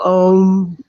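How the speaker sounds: slow, holding back a giggle; trying to stay serious and failing; real laugh breaking through; stifled laughter. Real, not acted. Trying to get serious, cracks up.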